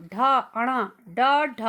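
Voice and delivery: retroflex ड and ढ said singly, firmly; sound demo. Shown as a demonstration. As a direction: curl the tongue and sound out ड, ढ. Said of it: "जब मैं बोल रही हूँ तो मैं महसूस कर रही हूँ".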